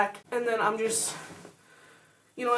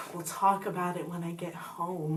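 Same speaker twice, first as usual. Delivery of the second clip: mock gloom; 5 semitones lower, 5 dB quieter, slower than usual. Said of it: "act depressed".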